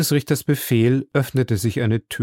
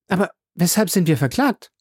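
higher, impatient outburst; impatient cry; 7 semitones higher than usual. A narrator's reading. Passepartout demanding of the judge why they are charged, impatient. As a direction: blurt it out, unable to wait. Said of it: "rief Passepartout voll Ungeduld".

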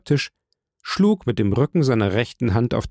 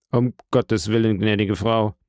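dry firmness. Acted. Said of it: "mit einer trockenen Festigkeit".

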